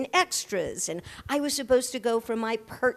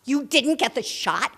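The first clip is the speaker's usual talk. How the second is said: incredulous; 4 semitones higher, 5 dB louder than usual. Retold or imitated. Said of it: "DeMille reacting".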